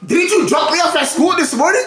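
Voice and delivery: lightly mocking kid pleading; imitating the son. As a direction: parrot the boy's question with a laugh. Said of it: "when he said".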